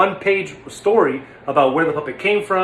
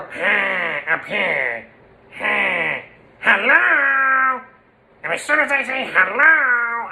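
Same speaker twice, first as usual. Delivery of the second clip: high character hello; Stanley voice; 4 semitones higher, much slower than usual. Shown as a demonstration. Stanley's trigger greeting, high character voice. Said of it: "And he's more".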